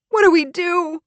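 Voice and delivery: high, loud, panicked plea; sobbing. Acted. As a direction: ask desperately through sobs. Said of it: "gasping through her sobs".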